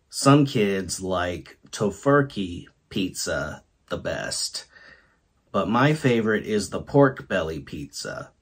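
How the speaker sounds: story reading. Acted. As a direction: read it out like a story to an audience. Reads the Mad Lib story aloud.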